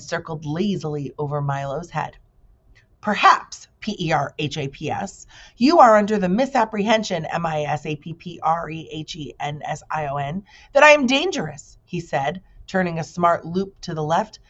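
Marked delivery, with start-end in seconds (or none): 3.0-11.8 proud spelling bee. Acted. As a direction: announce yourself like a showy insect. Bee character voice.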